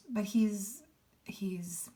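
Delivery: stammer, fading to a whisper; stuttering. Acted. Mister P unsure what to say about Rowdy, stammering into a whisper. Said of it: "Mister P stuttered".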